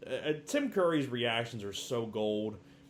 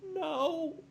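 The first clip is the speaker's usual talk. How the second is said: mock murmured no. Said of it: "kinda murmur a little".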